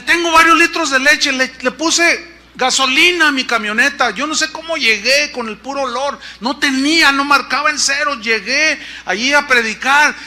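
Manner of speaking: high, insistent mock complaint; ironic. Pastor telling Chuy about milk and gasoline, ironic. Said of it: "en tono irónico me dice".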